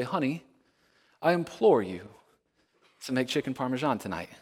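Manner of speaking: a hint of stiff, formal asking; stiff formal request. Husband jokingly asks wife in stiff formal words. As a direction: ask the wife too formally, mock-stiff. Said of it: "It's not the kind of thing we say".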